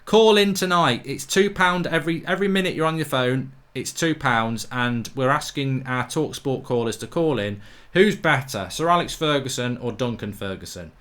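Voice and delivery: mock radio phone-in plug; mock TalkSport presenter. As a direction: lightly sell the phone-in like a radio ad. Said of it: "are you from TalkSport".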